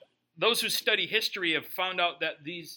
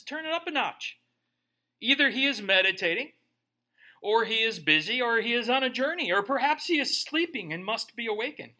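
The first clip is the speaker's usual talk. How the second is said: raised, taunting preacher delivery; snarky mockery; 3 semitones higher, 3 dB louder than usual. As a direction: needle the rival prophets. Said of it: "he's getting snarky here".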